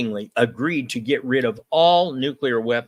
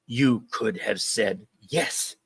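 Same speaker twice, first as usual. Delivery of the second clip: cold reply; slower than usual. Retold or imitated. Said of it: "Reagan very coldly said".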